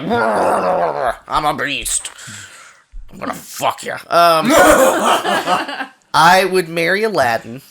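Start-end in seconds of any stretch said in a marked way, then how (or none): 0.0-3.9 beast voice. Retold or imitated. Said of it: "he'd try it and be like".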